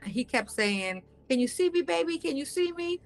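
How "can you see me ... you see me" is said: pitched up, pleading imitation of him on a bad video call; a lightly mocked caller voice; mimicking him. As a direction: echo his repeated question, higher. Mimicking the man on video chat.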